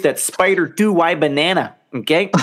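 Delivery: badly attempted coach impression; lightly put-on coach accent, not quite landing; John Gruden. Podcast host imitating a coach's catchphrase, bad impression. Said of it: "That was a bad accent".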